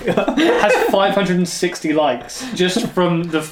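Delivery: laughing. Real, not acted. Laughing brag.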